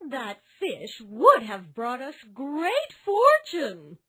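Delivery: high, loud scolding voice; angry scolding wife. A narrator's reading. Wife keeps shouting at her foolish husband, high. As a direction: keep scolding him hard. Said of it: "she continued to shout".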